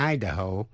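Idaho as "I-da-ho"; stress on first syllable. Shown as a demonstration. Teacher repeating the contrast for listeners, Idaho stressed first. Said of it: "nhấn mạnh vần đầu".

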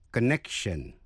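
"connection" with a light, unreleased k before the sh; touch a k in "connection", barely released; soft k in connection. Shown as a demonstration. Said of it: "phát âm là k". ("connection" với âm k nhẹ, không bật rõ)

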